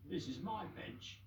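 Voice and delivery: slow, high dog claiming a bench; dog guarding his bench; gruff dog. Acted. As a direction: lay claim slowly. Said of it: "barked a dog".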